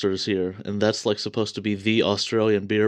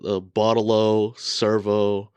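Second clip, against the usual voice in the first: American accent; much slower than usual. Shown as a demonstration. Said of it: "in an American accent".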